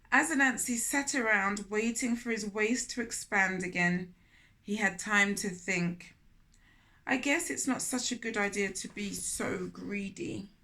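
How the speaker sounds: put-on storytelling voice for children; gentle read-aloud storytelling; story narration. A narrator's reading. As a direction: read it like a picture book aloud. Narrating and Anansi's regret.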